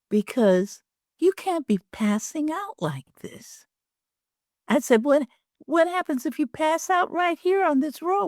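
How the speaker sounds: worried pleading. Retold or imitated. Retelling her worried plea to husband.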